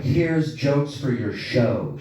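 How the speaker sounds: slow, lightly smug daughter imitation; a touch of mock arrogance, taken slowly; cocky know-it-all. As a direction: mimic a kid drawing out each word, sure of herself. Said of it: "She says it like that".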